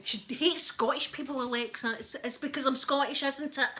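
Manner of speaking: mock indignation. Retold mock accusation at Alexa.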